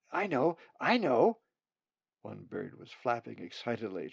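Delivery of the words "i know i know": high, louder chick voice, bursting to answer; eager nestling. Acted. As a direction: pick me, pick me.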